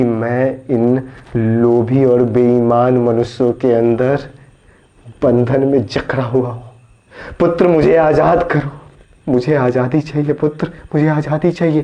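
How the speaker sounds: a bound god urgently demanding release; voice of the divine. Acted. Supreme Being pleading with a devotee to free him, commanding. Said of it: "वो पर ब्रह्म मुझसे क्या कहता है".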